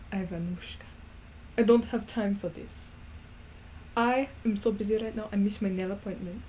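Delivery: put-on shaky grasp of a Russian accent; attempted Russian accent. Ivanushka too busy, missed nail appointment, attempted Russian accent. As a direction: play a busy character in tentative Russian accent. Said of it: "I can't do the accent".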